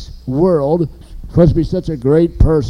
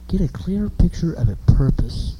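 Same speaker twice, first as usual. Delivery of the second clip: whispered. Real, not acted. Repeats point in whisper.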